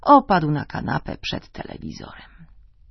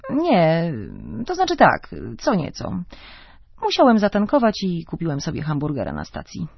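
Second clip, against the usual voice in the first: flustered husband. Acted.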